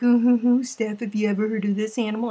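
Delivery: imitating excited friends testing her; eager friends. Host mimics people trying to stump her, eager and fast. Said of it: "They're like".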